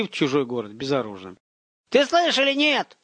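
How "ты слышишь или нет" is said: put-on high, impatient boyish yell; raised, demanding holler. A narrator's reading. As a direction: shout it down from above. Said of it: "заорал сверху Ромка".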